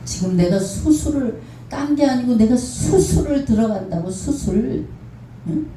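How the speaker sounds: 수술 앞둔 딸의 고함 흉내; imitating daughter yelling. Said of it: "소리소리 지르면서".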